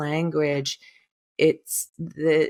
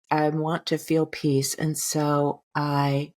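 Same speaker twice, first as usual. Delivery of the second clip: affirmation; slower than usual. Shown as a demonstration. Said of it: "This is".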